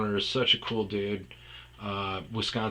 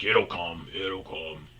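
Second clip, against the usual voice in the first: imitating Guido; 3 semitones lower, slower than usual. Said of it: "Guido would always say that".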